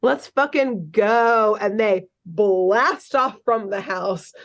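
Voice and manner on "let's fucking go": hyped. Retold or imitated. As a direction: draw out the rally as if mimicking hyped kids.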